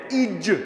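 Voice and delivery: ইজ with a clear buzzing z. Shown as a demonstration. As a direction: stress the buzzing z at the end of ইজ. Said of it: "এর মধ্যে কিন্তু জ আছে".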